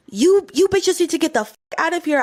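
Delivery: mock angry order. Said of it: "she was like".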